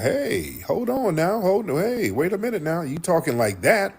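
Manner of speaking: a hint of Corey's startled pushback; imitating Corey. Retelling how Corey stopped Anton mid-insult, mildly imitated. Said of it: "And Corey was like".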